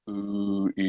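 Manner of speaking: deep, covered ooh and ee; dark low vowels. Shown as a demonstration. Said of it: "vowels like".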